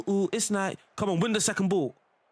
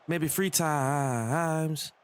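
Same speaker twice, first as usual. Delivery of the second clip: drawn-out imitation of the game's voice line, much slower; slow imitated voice line; much slower than usual. Gamer to himself, imitating a voice line, very slow. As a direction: stretch each word like a recorded clip.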